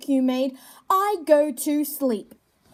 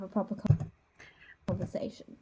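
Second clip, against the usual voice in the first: whispered; 7 semitones lower, 9 dB quieter, faster than usual. Real, not acted. Trails off.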